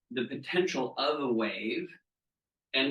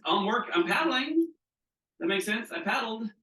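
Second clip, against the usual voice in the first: high excited retelling; 9 semitones higher than usual. Retold or imitated. Retelling missed wave.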